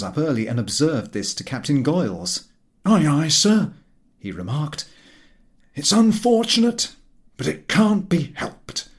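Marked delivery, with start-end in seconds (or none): 2.9-3.7 put-on old seaman, hearty and loud; gruff sailor voice. A narrator's reading. Narrator voicing the sailor captain. 5.7-8.9 higher, louder salty captain; a captain shrugging it off aloud; old sailor voice. A narrator's reading.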